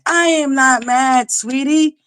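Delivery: high, slow, syrupy denial; slow sugary insistence. Real, not acted. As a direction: draw it out sweetly. Slow insisting not mad.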